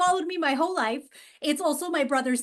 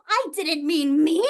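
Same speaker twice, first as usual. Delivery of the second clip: indignant punchline; 5 dB louder than usual. Real, not acted. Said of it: "by God".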